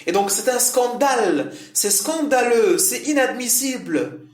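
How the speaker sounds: teacher hamming up indignation for the class; outraged demo. Shown as a demonstration. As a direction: act out the scandal, showing outrage. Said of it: "ça veut dire c'est inacceptable".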